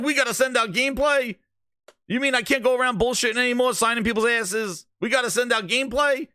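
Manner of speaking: mock Phil Spencer squeaking in disbelief; squeaky panicked Phil. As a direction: whine it like a caught-out fibber. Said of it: "His little squeaky voice".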